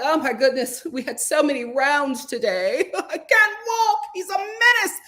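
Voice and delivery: mock bragging. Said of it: "You know, like".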